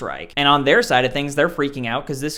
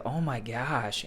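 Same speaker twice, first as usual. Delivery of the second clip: stunned oh my gosh; 5 semitones lower, 11 dB quieter, slower than usual. Retold or imitated. Realizing Bond will die.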